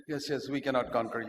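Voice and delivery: low, soft, mildly acted submission; cowed surrender. Christians trembling before the giant, meek surrender. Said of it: "tremble and say".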